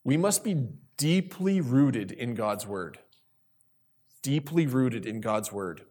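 deeply rooted in God's word, each word weighed slowly with pauses; spaced out for emphasis; slow emphatic pauses. Shown as a demonstration. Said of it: "I want to pause for emphasis here".

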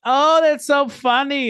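high, drawn-out fake delight; mock gushing. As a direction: imitate someone gushing, way up high and slow. Mocking the worker's gushing reply.

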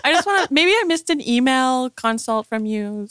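hesitant, mock-apologetic politeness; over-polite, roundabout asking; nice email. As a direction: play meek and tentative. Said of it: "I sent them a nice email".

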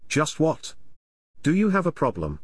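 goading. A narrator's reading. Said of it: "taunting the man with his rod".

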